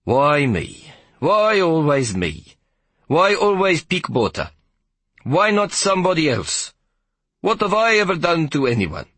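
high, drawn-out whining conductor voice; railway conductor bemoaning his fate; self-pitying conductor. Acted. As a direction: moan to the heavens at his bad luck.

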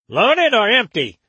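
high, nasal, pinched boatman; sharply nasal voice. Acted. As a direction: squeeze it through the nose. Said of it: "in a sharply nasal voice".

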